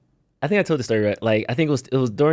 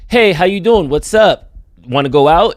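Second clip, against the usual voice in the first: mock casual pickup line; 5 semitones higher, 7 dB louder than usual. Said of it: "if somebody said".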